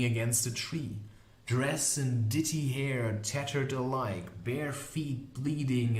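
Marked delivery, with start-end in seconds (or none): none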